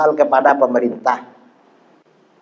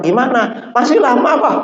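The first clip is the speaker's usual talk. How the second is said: retold anxious exchange; 9 semitones higher than usual. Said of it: "kata susternya".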